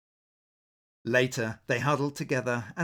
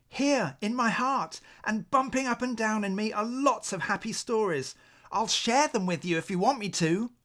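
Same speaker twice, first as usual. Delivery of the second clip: little owl voice; 8 semitones higher than usual. Acted. Little owl offers his stories.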